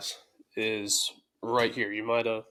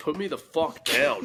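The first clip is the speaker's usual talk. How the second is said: put-on pet dog voice, higher; 5 semitones higher than usual. Speaking for a dog being held up, voicing the dog Bo. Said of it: "He said".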